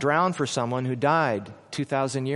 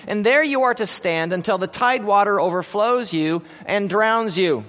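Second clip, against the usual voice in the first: death sentence; 4 semitones higher than usual. Acted. Judge pronounces death sentence.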